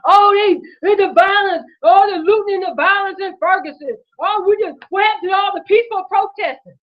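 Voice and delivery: hammed-up mock of cable news talk. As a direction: sneer as you parrot the media. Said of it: "That's what they telling my people on the T V".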